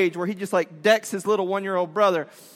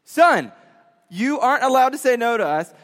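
a firm, raised lecture; stern dad; 4 semitones higher, 5 dB louder than usual. Retold or imitated. Dad to son about the shoes, firm and raised. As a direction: lay down the rule.

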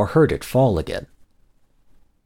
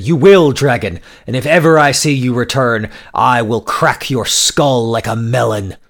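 threatening, louder; 3 semitones higher, 5 dB louder than usual. Acted. Merchant threatens the dragon.

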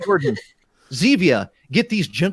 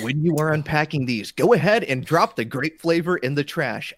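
straight-faced trailer narration, steady; composed movie trailer voice. Pretend. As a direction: read it deadpan like a trailer. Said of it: "Let me try this again".

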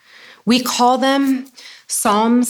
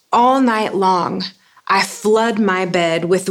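a touch of desperate longing in a measured reading; mild desperation. Acted. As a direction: plead with God, with understated anguish. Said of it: "the desperation in these Psalms".

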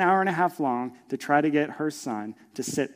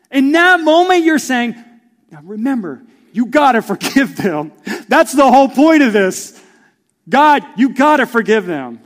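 much louder, higher impassioned preaching; full-force preaching; 9 semitones higher, 14 dB louder than usual. Real, not acted. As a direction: lift it up and plead with the crowd. Preacher at peak intensity.

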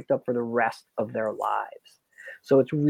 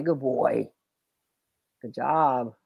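soothing a scared dog; 2 semitones lower, 4 dB quieter, much slower than usual. Real, not acted. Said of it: "I jolly talked him".

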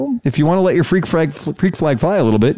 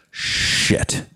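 breathy hushed curse; whispered curse; 7 dB quieter than usual. Retold or imitated. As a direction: mutter it under your breath in dismay. Imagined new hire's dread.

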